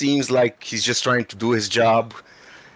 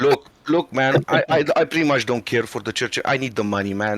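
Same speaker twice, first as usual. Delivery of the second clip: stoner voice. Acted. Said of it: "you're talking like a stoner to him".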